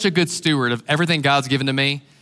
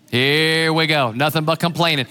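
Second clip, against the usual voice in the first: "Here we go." drawn out slowly, eye-rolling and weary; slow weary sigh; 2 semitones lower than usual. Retold or imitated. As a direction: stretch "Here we go." slowly, fed up. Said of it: "you're like".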